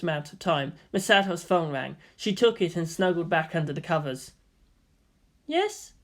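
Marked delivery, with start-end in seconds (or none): 5.5-5.9 high, lively woman's voice; bright teasing guardian; Misato voice. Acted. Misato questions Shinji at the target, high lively voice.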